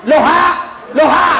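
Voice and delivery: "Loha, loha" shouted high and earnest, the syllables of halo swapped; reversed hello shout. Retold or imitated. Old man turns hello backwards at the phone, shouting high. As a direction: yell "Loha" as if it fixes the phone. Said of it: "Langsung dia bilang ni".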